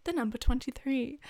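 British bingo caller finishing; mock British caller. Caller announcing twenty-three, mock British accent. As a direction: round off the call in mock British. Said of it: "my best English accent".

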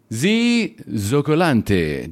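Zoccolante said with a light mock Italian accent. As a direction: roll Zoccolante out the Italian way, slowly. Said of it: "That's Italian. That's my best Italian accent".

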